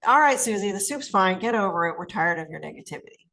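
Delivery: annoyed put-down of a negative aunt; aggressive. Shown as a demonstration. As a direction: tell her off bluntly. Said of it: "Aggressive would be".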